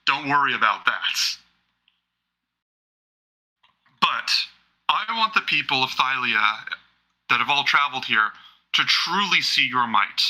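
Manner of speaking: slow, measured royal proclamation; slow ceremonial speech; formal king's address. Acted. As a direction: address the arena with deliberate, stately pauses.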